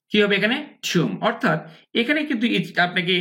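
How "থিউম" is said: "থুম" with a "yoo" glide, "thyoom"; "yoo" sound. Shown as a demonstration. Teacher answering own question, "থুম" as "thyoom". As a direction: put an "ew" inside "থুম". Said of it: "ইউ সাউন্ডটা উচ্চারণ করতে হবে".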